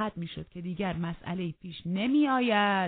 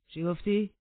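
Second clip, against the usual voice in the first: louder, higher sharp question; sharp demand; 4 semitones higher, 5 dB louder than usual. Acted. Master demands what Hareton said, sharply. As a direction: snap the question back.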